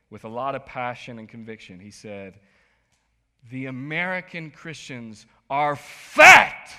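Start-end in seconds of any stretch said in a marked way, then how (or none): 3.5-6.7 slow, booming shout of fat; a professor's passionate yell; shouted quote. Retold or imitated. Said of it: "That's how he said it".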